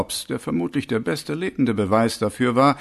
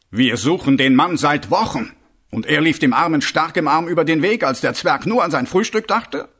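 incredulous; 4 semitones higher, 5 dB louder than usual. Acted. Commander incredulous at murder report.

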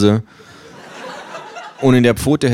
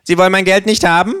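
Känguru; 12 semitones higher, faster than usual. Acted. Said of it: "hört abrupt auf zu lachen".

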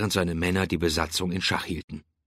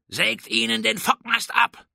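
high, forceful captain's command; shouted order. A narrator's reading. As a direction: shout the order over the guns. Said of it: "rief Drake".

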